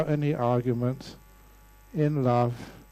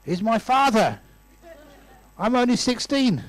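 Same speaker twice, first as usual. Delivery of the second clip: amused protest; 8 semitones higher, 4 dB louder than usual. Retold or imitated. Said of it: "both of them burst out laughing".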